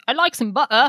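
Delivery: "butter" said British, ending "buttah" with no R; British accent on "I like some butter". Shown as a demonstration. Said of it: "As opposed to British".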